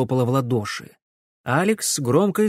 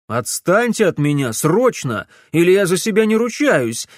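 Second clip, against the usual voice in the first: angry refusal; 6 semitones higher, 5 dB louder than usual. A narrator's reading. Alex refuses, threatening.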